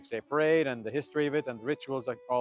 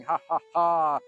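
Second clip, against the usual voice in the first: demon laugh; 3 semitones higher, 6 dB louder, slower than usual. A narrator's reading. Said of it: "this big demon who was laughing".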